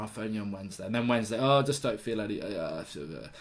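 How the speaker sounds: low, soft, feeble voice of a faked illness; fake sick voice. Worker phoning the boss to throw a sickie, hammed-up feeble moan. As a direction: drag it out like you're dying while phoning in sick. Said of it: "Who talks like that?".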